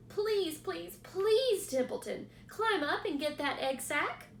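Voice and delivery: begging the rat to hurry; pleading pig. Acted. Wilbur pleading.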